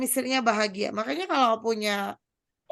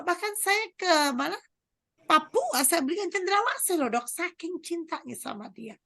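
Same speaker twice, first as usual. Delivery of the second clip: raised, insistent husband telling his gifts; husband pleading to doctor. Retold or imitated. Husband protesting to doctor that he loves his wife, pitched up. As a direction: list every gift to prove his love, pitched up. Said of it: "si suami bilang".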